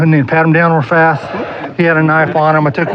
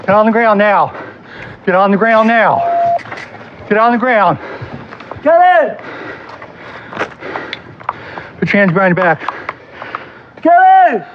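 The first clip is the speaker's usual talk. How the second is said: shouted surrender demands; 6 semitones higher than usual. Real, not acted. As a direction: order him down, forceful. Officer forcing suspect down.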